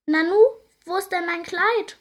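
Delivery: high, puzzled question; puzzled wonder. A narrator's reading. Fairy missing her dress, puzzled high question. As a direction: wonder aloud where it went. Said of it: "wundert sich die Erdbeerfee".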